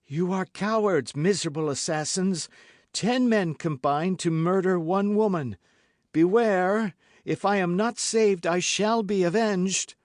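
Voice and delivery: high, loud defiant outcry; crying out. A narrator's reading. Milady crying out at her captors. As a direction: hurl it at them, high and loud. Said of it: "to cry out".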